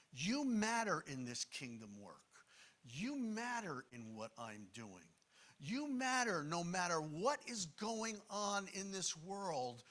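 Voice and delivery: "You matter" leaned on at each repeat; emphatic YOU. Retold or imitated. Jesus reassuring a normal group of people, emphatic "You". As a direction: lift "You" at the start of every phrase. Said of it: "it's emphatic".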